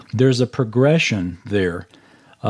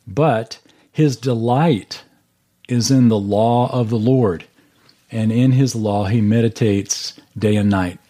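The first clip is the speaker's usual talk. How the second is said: scripture reading. Acted. Reads verse two aloud.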